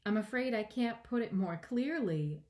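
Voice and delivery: mildly polite, earnest reply; understated polite little-girl character. A narrator's reading. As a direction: explain courteously, a touch apologetic. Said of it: "Alice replied very politely".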